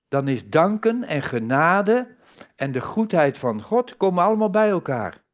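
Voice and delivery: normal talking voice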